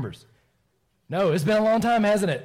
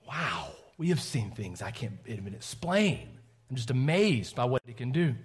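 hushed wonder; 3 semitones lower, 3 dB quieter than usual. Retold or imitated. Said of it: "They're like".

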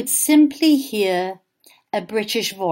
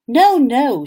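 mild stroppy refusal; a hint of a defiant little girl; girl refusing mother, mild stubborn no; stubborn child; 3 semitones higher, 5 dB louder than usual. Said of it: "said Lola Bone".

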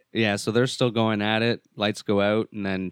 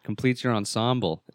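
startled stoner dude; 3 semitones higher, 4 dB louder than usual. Retold or imitated. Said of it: "He's like".

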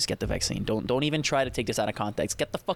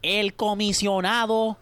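lucha libre announcer; 6 semitones higher than usual. Pretend. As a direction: announce it like a wrestling show. Mock ring announcer introduction.

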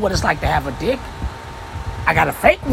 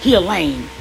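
mocking man; 5 semitones lower than usual. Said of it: "I don't never hear a man say".

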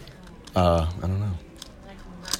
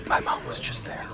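soft, voiceless whisper into the mic; hushed playful ASMR talk; 2 semitones higher, 6 dB quieter than usual. Pretend. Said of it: "we should just whisper it".

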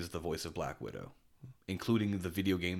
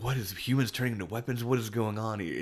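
lightly acted confusion, higher and quicker; mock bafflement; 3 semitones higher, 3 dB louder than usual. Podcaster voicing a newcomer puzzled by the anime's premise, mock bafflement. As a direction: play a mildly bewildered viewer.

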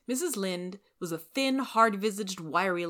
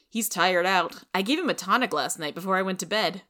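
a touch louder, brisk neighbourly Marilla; 5 dB louder than usual. Acted. Marilla greeting Rachel at her door, brisk and loud.

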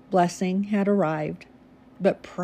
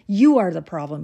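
louder, hammering on the You; angry accusation; 6 dB louder, faster than usual. Acted. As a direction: spit the blame at her, hitting You hard. Husband accusing wife in fight.

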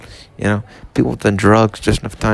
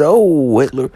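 mock savouring voice. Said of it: "They sipped it up and said".

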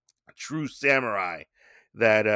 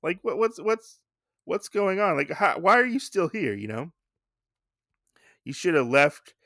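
pitched-up, puzzled question; mock surprised master; 6 semitones higher than usual. Master finding the boy outside all night, baffled. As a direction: act baffled he's still there. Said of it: "Katsuchi's like".

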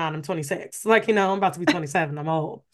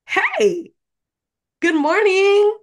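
high, loud, sing-out British greeting; British accent; 11 semitones higher, 8 dB louder, much slower than usual. Retold or imitated. Boyfriend bursting in to greet her, mock British accent. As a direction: call out a hammed-up British hello. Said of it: "'cause he has a British accent".

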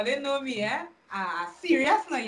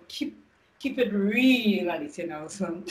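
slow, drawn-out radio sign-off; 2 semitones lower, slower than usual. Acted. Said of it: "You hear she radio voice?".

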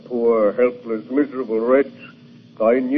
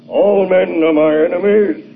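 menacing threat; 5 semitones higher, 3 dB louder than usual. Acted. Monster wrestles the gun away.

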